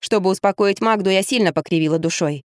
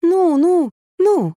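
soothing murmur; 10 semitones higher, much slower than usual. Acted. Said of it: "приговаривая".

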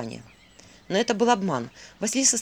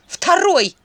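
much louder, higher bark; 9 semitones higher, 9 dB louder than usual. A narrator's reading. Vasilisa barks at the captured demon, loud bark. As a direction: bark the word at him. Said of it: "рявкнула Василиса".

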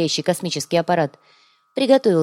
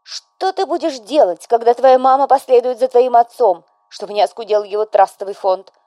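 grieving; 6 semitones higher, 6 dB louder than usual. A narrator's reading. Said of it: "горестно осведомилась безутешная вдова".

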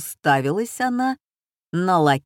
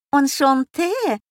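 lightly voiced mincing hostess; a hint of a fussy hostess; affected French; 7 semitones higher, 3 dB louder than usual. A narrator's reading. Hostess repeating the French phrase, lightly affected. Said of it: "зафинтила хозяйка".

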